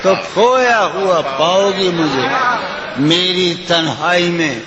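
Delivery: lilting, sung-through recitation of a ghazal; poetry recitation. Acted. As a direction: recite it like at a mushaira.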